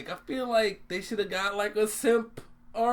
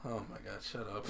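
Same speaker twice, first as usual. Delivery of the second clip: whispered; 8 semitones lower, 14 dB quieter, faster than usual. Real, not acted. Embarrassed laughing aside.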